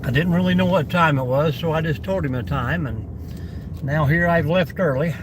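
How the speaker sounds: chewing crunchy fries while talking; crunching food. Real, not acted. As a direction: talk through crunchy bites. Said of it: "you can probably hear me crunching".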